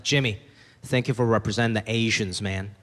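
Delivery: a hint of a solemn admirer; proud fan.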